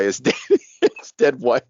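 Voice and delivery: trying to talk through a laugh; laughing guiltily. Real, not acted. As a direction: break into giggles you know you shouldn't have. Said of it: "I shouldn't be laughing about this".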